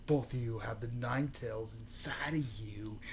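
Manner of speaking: hushed, whispery retold villain line; whispered reveal. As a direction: let the secret out in a mock whisper. Villain reveals a hidden secret.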